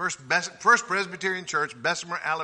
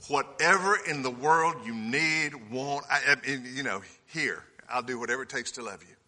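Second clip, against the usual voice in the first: doting grandparent; 4 semitones lower than usual. Retold or imitated. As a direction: soften completely, as if to a toddler running at you.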